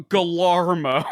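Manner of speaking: laughing through the Texan-French name; Texan-French accent. Retold or imitated. Retelling the Texan kid's French, laughing, in a Texan accent. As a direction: chuckle the name out in a Texan twang. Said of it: "French with a thick Texan accent".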